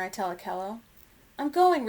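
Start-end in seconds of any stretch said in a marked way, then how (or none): 1.4-1.9 loud, high, stubborn declaration; most determined. A narrator's reading. Young elephant refusing to stay behind, loud and determined. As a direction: declare it with full determination, louder. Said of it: "in her most determined voice".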